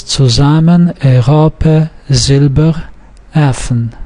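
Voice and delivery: Zusammen, Europe, Silber, Effen stressed second syllable from last; penultimate stress. Shown as a demonstration. Teacher reading stress examples, penultimate stress. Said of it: "fall on the second syllable from the last".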